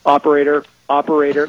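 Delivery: a mild, exasperated caller's yell; mock yelling. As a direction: half-shout it into an automated phone menu. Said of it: "you're just yelling into it going".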